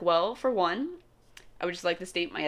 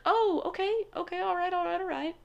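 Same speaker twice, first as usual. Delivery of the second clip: mock awkward people; 11 semitones higher than usual. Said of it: "people were like".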